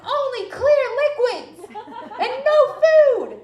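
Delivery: slow, high-pitched scolding screech; yelling. Retold or imitated. Weird anesthesiologist scolding a patient in pain, yelling. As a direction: screech each word out slowly. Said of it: "why you're yelling at me".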